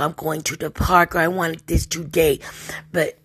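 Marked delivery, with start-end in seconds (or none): 0.0-1.1 "I'm going to the park" in careful, separated words; learner baby talk. Shown as a demonstration. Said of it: "they're gonna be talking like". 1.2-2.4 "I wanted this today" in careful, separated words; learner baby talk. Shown as a demonstration. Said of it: "they're gonna be talking like".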